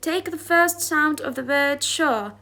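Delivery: careful, slow read-aloud of English text; slow textbook reading. Acted. Teacher reading the English passage to her class slowly. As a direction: read each word out slowly for students.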